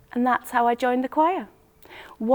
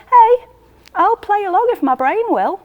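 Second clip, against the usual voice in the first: voice breaking; 10 semitones higher, 5 dB louder than usual. Real, not acted. Lonely narrator breaking.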